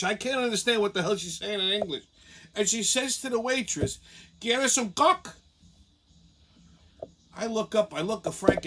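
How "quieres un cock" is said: lightly imitated Honduran bartender accent; Spanish accent. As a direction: mimic a bartender with little English and a Spanish accent. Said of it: "her English is so bad".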